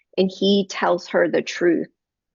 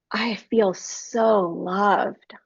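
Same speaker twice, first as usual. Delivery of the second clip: very slow, drawn-out tender quote; relaxed relief; much slower than usual. Retold or imitated. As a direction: retell her heartfelt relief, lingering on each word. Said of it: "She had just relaxed and".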